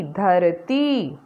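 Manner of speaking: very slow, stretched word; slow blending. Shown as a demonstration. Teacher blends मटकी slowly for children, stretched. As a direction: draw each sound out for the class.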